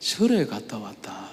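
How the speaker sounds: very low, faint, shrinking mumble. Act out your grandmother answering when pressed on where she went, imitating a barely audible, shrinking voice. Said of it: "기어 들어가는 목소리로".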